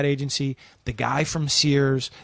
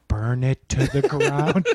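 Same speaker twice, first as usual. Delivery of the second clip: the dark thought returns; a hint of the sinister inner voice; slower than usual.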